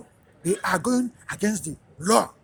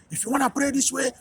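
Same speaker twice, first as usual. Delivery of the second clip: hostile taunt; 5 semitones higher, 4 dB louder than usual. Retold or imitated. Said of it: "start talking shit to you and telling you".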